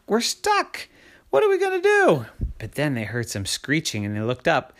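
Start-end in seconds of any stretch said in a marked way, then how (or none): 0.1-2.2 high-pitched wail of despair; rising panic. Acted. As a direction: wail it, trapped and frantic. Trapped family panics in attic.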